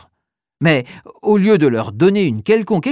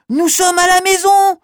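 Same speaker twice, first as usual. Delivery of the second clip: high, louder excited realisation; excited child; 14 semitones higher, 5 dB louder than usual. Acted. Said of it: "confirme Oscar".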